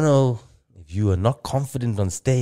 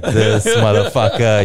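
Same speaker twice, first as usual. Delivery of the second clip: mock outrage; 7 dB louder, slower than usual. Disbelief at a cocky guitarist.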